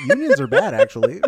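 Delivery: high laughing outburst; cracking up at the joke. Real, not acted. Laughing at own mock opinion.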